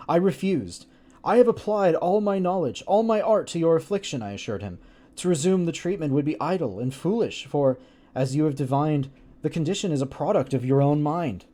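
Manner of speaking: words pushed out between clenched teeth; through gritted teeth. Acted. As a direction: read it with jaw clenched, lips pulled back. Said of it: "just speaking through my teeth".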